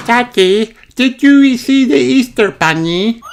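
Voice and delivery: put-on high, eager little girl's question; little Rebecca Rabbit. A narrator's reading. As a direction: pitch way up like an excited small child. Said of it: "asks Rebecca".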